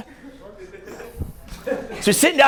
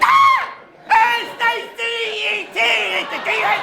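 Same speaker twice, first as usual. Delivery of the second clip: mock stuck face; much slower than usual. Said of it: "So I'm like".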